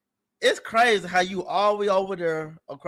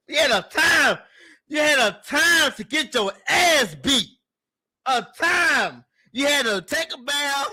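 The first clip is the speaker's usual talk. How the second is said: mock yell of an angry mom, a bit higher; hamming up mom's scolding with a raised voice; retold mom yelling; 3 semitones higher than usual. Retelling his mom scolding him for misbehaving, mock yell.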